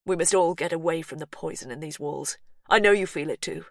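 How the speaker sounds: urgent plea. Acted. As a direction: urge her to leave. Brother urging escape.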